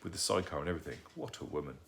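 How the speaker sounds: soft whispered aside into the ear. Acted. Lancelot whispering to the boy about Granny. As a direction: whisper it as a secret, admiring. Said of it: "He whispered in my ear".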